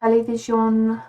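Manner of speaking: a poor stab at a German accent; attempted German accent. Shown as a demonstration. Streamer showing chat the German word, attempted German accent. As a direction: say "Television" in a halting German accent. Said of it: "I can't do a German accent".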